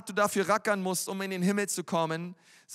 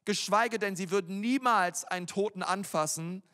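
usual speaking voice

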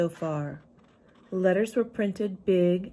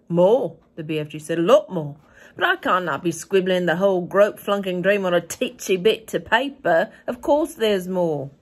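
the BFG; 7 dB louder than usual. A narrator's reading. BFG voice reading story.

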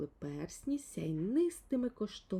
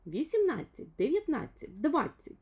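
lightly voiced little fellow counting the rings, higher; 7 semitones higher, 6 dB louder than usual. A narrator's reading. Little man counts the phone rings aloud, lightly voiced. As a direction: count each ring out loud, a little higher. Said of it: "лічив далі Півчеревичок".

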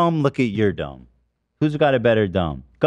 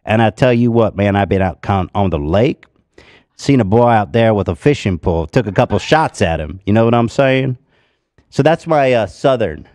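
put-on loud, drawled good-old-boy southern accent; 4 dB louder than usual. Shown as a demonstration. Comic showing off a MAGA good old boy, southern accent. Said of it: "But my southern accent".

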